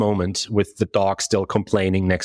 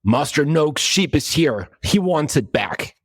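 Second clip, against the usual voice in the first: higher-pitched orc bellow; 6 semitones higher than usual. Acted. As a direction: call it out like a huge orc woman. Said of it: "she bellows".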